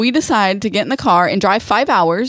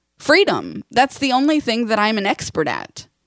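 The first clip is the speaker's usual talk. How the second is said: mock dry wisecrack, sarcastic, swooping delivery; 2 semitones higher than usual. Retelling a joking answer given to a husband: retelling a sarcastic reply. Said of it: "in my first language of sarcasm".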